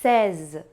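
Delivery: "seize" slowly with an open e and a final z. Shown as a demonstration. Teacher introduces seize slowly to students. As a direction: draw out seize. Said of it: "Se diz".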